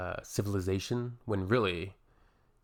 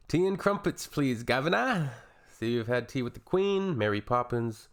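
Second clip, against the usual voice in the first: mock clueless American; 3 semitones higher than usual. Mocking American view of Brits.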